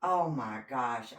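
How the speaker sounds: mock shocked gasp, the second part slow; imitating a guilty man's feigned surprise; fake surprise. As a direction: play-act being shocked, hammed up. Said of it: "just acting like a, a fool".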